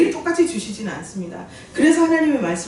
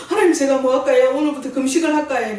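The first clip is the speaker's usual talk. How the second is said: louder, higher-pitched eager plea to God; retold tearful plea; 3 semitones higher, 5 dB louder than usual. Preacher retelling her prostrate prayer to God, mock tearful pleading. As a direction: imitate a desperate, weepy offer. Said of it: "엎드려서 하나님 앞에 울면서".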